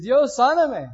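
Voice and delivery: loud, pleading cry to God; desperate plea. Retold or imitated. Borracho enfermo le ruega a Dios. (el borracho enfermo le ruega a Dios a gritos)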